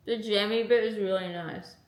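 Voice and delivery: talking through a mouthful; words round a bite of food; mouth full. Real, not acted. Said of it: "I'm speaking with my mouth full".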